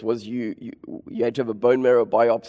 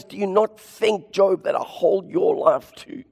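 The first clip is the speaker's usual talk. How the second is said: God's voice building from gentle plea to a booming high cry; voicing God, rising; 6 semitones higher than usual. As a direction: start pleading, swell to a high shout on own and hold. Preacher voicing God, building intensity.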